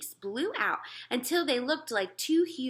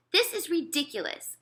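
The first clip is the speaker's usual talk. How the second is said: cried out; 9 semitones higher, 3 dB louder than usual. Acted. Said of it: "cried the Air Marshal".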